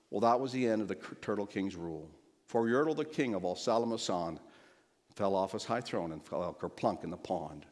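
measured, rhyming storybook read; storybook narration. A narrator's reading. Preacher reading a children's story to graduates, storybook narration.

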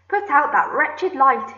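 slow, loud angry shout. A narrator's reading. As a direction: yell it slowly, fed up. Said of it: "he shouted".

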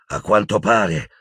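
slow, taunting drawl; leisurely mock deduction. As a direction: draw the words out smugly. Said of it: "disse con voce strascicata".

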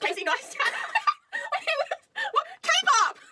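high, loud burst of disbelief; excited outburst. Real, not acted. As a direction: blurt it out in shock. Outburst about YouTube Rewind.

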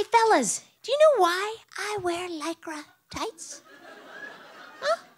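high, loud, laughing confrontation; loud challenge. Retold or imitated. Challenging the officers about her Lycra tights, loud and high. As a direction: put the question to them, daring.

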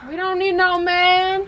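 high, slow, grand proclamation; dramatic declaration. Pretend. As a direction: belt it like an anthem. Repeated slogan, plain then dramatic.

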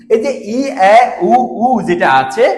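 ই, এ, উ said quickly as half-vowels; ই এ উ উ clipped and quick; quick vowel sounds. Shown as a demonstration. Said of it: "এগুলো আমি খুব তাড়াতাড়ি উচ্চারণ করেছি". (দ্রুত উচ্চারিত ই, এ, উ)

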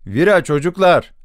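high calling command to hoist; heave call. Acted. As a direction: cry out the signal to haul. Foreman calling workers to heave. (yüksek sesli vira komutu)

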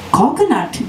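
gasped. Acted. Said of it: "gasped Angela".

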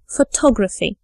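"photography" stressed on the second syllable, TOG; stress demonstration. Shown as a demonstration. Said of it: "Consider the difference between".

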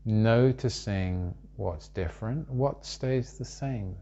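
measured meditation guide with long pauses; unhurried spoken guidance, leaving room to breathe; guided meditation. Real, not acted.

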